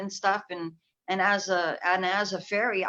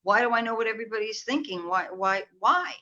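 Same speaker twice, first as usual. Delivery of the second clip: retold questioning; 2 semitones higher than usual. Retelling how they asked the universe, imploring. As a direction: replay an insistent plea for answers. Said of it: "I was asking the universe".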